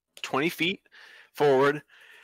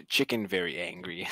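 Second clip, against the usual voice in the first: low, slow, halting delivery; simple-speech translation; 7 semitones lower, 6 dB quieter than usual. Acted. Player turning to Azrael to translate, low and slow. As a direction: relay it in slow, deep pidgin. Player relays chicken remark to companion.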